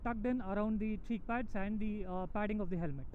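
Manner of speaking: talking inside a helmet with the visor down; muffled through a closed helmet visor. Real, not acted. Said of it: "I'm speaking with the visor closed".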